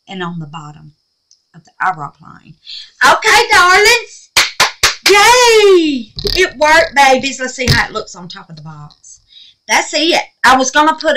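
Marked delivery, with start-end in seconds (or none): 3.0-7.4 excited. Real, not acted. Celebrating the finished craft.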